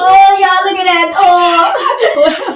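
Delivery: loud, high delighted cry; excited shout. Real, not acted. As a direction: shriek with delight. Reacts to a drink shown.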